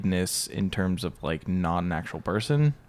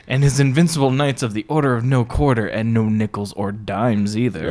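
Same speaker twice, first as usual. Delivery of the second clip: put-on girly voice; 4 dB louder than usual. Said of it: "I should be doing this in a girly voice".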